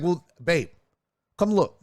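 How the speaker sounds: husband showing his wife the mess, exasperated. Retold or imitated. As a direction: insist she come see. Acted quarrel with Nora.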